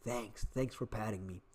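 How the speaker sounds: soft, low mock voice for the dog; voicing the dog. Giving the big dog a voice, soft and grateful. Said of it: "And the dog looks like".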